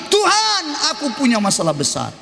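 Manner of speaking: high plaintive cry that sinks; mock complaint. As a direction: mimic the weak prayer. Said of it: "jangan kau bilang". (keluhan memelas pura-pura)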